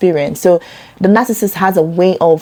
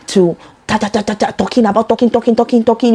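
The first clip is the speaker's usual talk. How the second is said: mocking endless chatter; 4 semitones higher, faster than usual. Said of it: "I don't have that type of energy".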